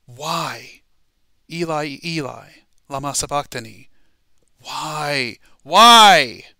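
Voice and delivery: drawn-out cry building to a huge shout; loud cry. Acted. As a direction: build to a full-voiced shout on the last why. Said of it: "He said it with a loud voice".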